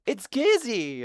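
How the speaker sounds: high laugh-filled cry; laughing exclamation. Real, not acted. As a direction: burst out laughing as you say it.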